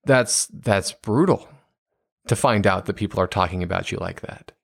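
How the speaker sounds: put-on parent validating an upset teenager; empathetic validating. Shown as a demonstration. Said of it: "instead saying".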